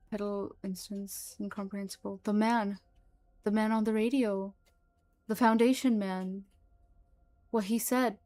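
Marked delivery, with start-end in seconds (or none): 2.2-8.2 louder, frightened pleading; fearful. Acted. Frightened creature explains itself to Mullins, louder. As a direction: blurt it out in fear. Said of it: "fear in its voice is apparent".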